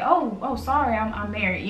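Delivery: softly apologetic, trailing down; a gentle, polite brush-off; pleasant and respectful. Acted. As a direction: let them down kindly. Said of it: "just to be pleasant and respectful and just say".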